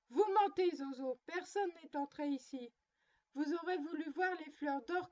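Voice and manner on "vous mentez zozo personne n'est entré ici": angry scolding. Acted. Mimi accuses her doll of lying, angry scolding. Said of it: "demanda en colère".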